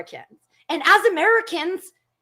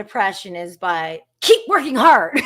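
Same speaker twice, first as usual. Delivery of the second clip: mock Trump voice; 6 semitones lower, 4 dB louder than usual. Mocking Trump's advice.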